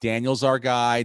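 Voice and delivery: slow imitated Boston accent, r dropped. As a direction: drawl it in a mock Boston accent. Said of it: "with his fucking wicked smart Boston accent".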